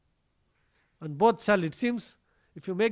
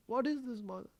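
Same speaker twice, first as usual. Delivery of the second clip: higher-pitched mock-tearful child; innocent protest; 5 semitones higher, 3 dB louder than usual. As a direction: plead innocence to mother, lightly hammed-up. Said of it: "Krishna very innocently, he will rub his eyes, you know, as if he's crying".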